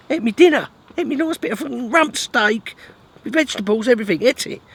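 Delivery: high, loud outraged complaint; exasperated rant. Real, not acted. Angler ranting at his dog for eating his steak, high outraged wail. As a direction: squeal it out in disbelief at the thieving dog.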